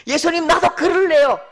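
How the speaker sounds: high, loud excited request; eager plea. Acted. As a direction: Peter itching to jump out. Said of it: "베드로의 들뜬 마음".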